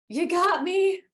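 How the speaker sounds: high, sheepish admission. Retold or imitated. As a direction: squeak it out sheepishly. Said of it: "I was like".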